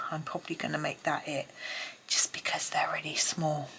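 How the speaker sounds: breathless from running upstairs; panting between words; out of breath. Real, not acted. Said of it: "Sorry, I'm out of breath".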